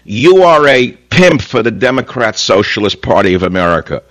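heated jab passed off as calm; insists calm, sounds heated. Real, not acted. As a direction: bark the insult while claiming calm. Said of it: "Does that sound like I'm furious".

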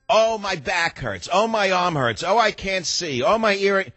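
lightly acted high-pitched moaner; a hint of whining hypochondriac; complaining old person. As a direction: grumble through aches, high and drawn out.

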